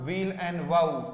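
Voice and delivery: wow said like "vau"; the o sound opened into au. Shown as a demonstration. Teacher showing students the right vowel, au. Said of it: "ओ को औ बोला जाएगा".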